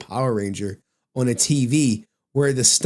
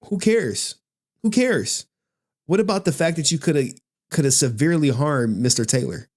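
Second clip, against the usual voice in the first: mock judge rant. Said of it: "The judge is thinking to himself".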